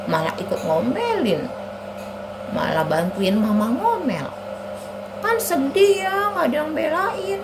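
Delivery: lightly voiced sulky kid; complaining child Ani. Ani says nobody defends her, sulky. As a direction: sulk through it like a child.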